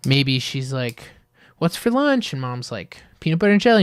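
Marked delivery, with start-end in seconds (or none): 1.6-2.3 put-on much higher, asking like a small kid; playful kid voice asking mom; little girl voice. Girl asks mom in retold ad. 3.2-3.8 higher, louder cheery announcement; mock mom. Mom answers in retold ad.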